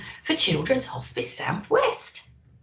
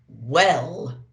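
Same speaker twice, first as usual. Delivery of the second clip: booming Santa; 5 semitones lower, 3 dB louder than usual. A narrator's reading. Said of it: "boomed Santa".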